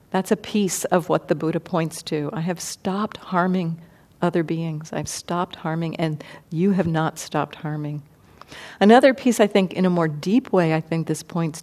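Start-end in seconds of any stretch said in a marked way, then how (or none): 2.3-8.0 soft quote. Retold or imitated. Buddha quoted softly.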